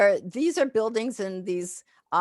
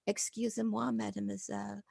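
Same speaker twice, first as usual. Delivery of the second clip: polite French greeting; 3 semitones higher, 9 dB quieter than usual. Shown as a demonstration. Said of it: "because I didn't say".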